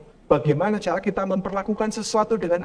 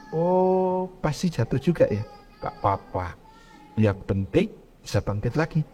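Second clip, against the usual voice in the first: gentle comforting; 4 semitones lower, 4 dB quieter than usual. Retold or imitated. Gentle comforting of fallen child.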